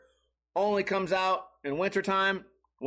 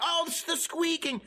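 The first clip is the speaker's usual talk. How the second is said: high, strained mock wail; high-pitched hammed-up agony; defeated tough guy; 11 semitones higher than usual. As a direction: cry out as the beaten boxer, pitched way up. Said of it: "and the guy went".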